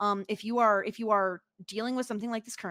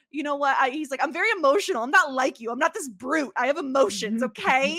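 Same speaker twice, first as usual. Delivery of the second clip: mock emotional Javier; 3 semitones higher, 6 dB louder than usual.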